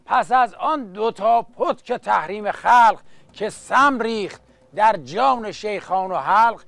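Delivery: rhythmic chanted Persian verse; epic teahouse storyteller. Acted. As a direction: recite like a coffeehouse naghal. Naghali verse recital.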